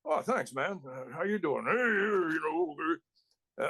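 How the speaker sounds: rambling biker buddy impression; Pitbull. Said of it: "That's exactly the way he talked".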